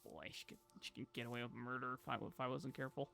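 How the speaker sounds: low, soft aside; low musing. Real, not acted. Owner musing about the dog getting away with things, low and soft. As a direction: say it low and quietly, musing to yourself.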